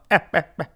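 short mock laugh; imitated chuckle. Retelling the driver's holiday joke, mock chuckle. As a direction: put on the driver's little laugh.

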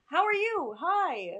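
squeaky high cartoon voice; helium voice. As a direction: talk like you inhaled helium. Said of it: "We're on helium".

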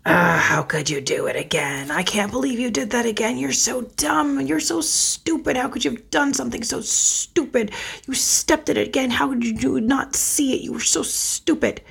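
mock harsh inner voice tearing into yourself; harsh inner critic. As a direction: berate yourself like the critics you grew up with. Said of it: "most of what I said looked more like".

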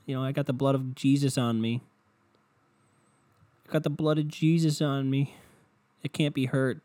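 half-chanted mock testimony; online believer. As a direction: imitate a woman proclaiming her protection. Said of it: "The one lady online, though, she's like".

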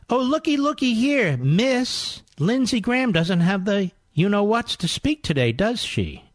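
lightly sing-song mock reading; a touch of catty put-on; mocking quote. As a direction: read it out with exaggerated mockery, drawing it out. Reads Griffin's mocking quote.

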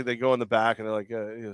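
usual speaking voice

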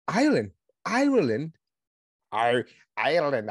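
badly faked Irish accent; clumsy stab at an Irish accent; attempted Irish accent. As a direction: try out an Irish accent, unsure of it. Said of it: "I cannot do an Ireland accent".

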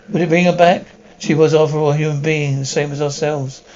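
loud, anguished appeal. Acted. Man confronting the professor about her death, loud anguish. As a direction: shout the question at him in despair. Pleading over killed woman.

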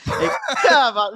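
fired up, too close to the mic; loud and pumped, almost biting the mic. Real, not acted. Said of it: "t'es en train de mordre dans le micro".

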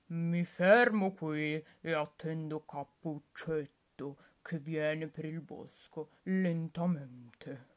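slow, scheming wolf voice; sly wolf. Acted. Wolf plotting to wait for Red Riding Hood, slow and sly. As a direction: savor the plan like a crafty wolf. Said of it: "con lo sguardo da furbetto".

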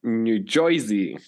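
slow, put-on New Jersey accent; mock New Jersey accent. Finishing co-host's line about the girls, mock New Jersey accent. Co-host completes intro in local accent.

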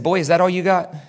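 level, controlled challenge; cool taunt. Acted. Jesus facing Satan in hell, understated taunt. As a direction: say it steadily, eye to eye. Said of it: "looked Satan right in the eye".

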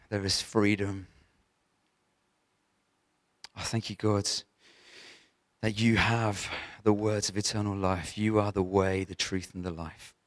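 steady, subdued praying voice; heartfelt prayer. Real, not acted. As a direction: pray it simply and reverently, in a low-key voice. Opens with a prayer.

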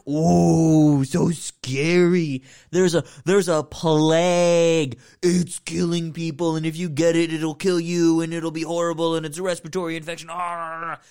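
hammed-up fake fright; sarcastic mockery. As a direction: pretend to be scared to mock it. Mocking the film's plague premise.

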